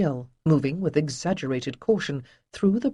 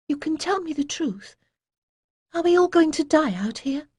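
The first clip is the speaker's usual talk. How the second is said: forced calm; 12 semitones higher than usual. A narrator's reading. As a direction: hold the fear down and plead. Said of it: "the effort she was making to remain calm".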